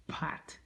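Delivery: 'pat' set apart and breathed almost unvoiced; stressed pat. Shown as a demonstration. Teacher emphasizing 'pat' as the negative past marker. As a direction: isolate the word 'pat' with a hushed hit. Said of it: "I emphasized on the word pat".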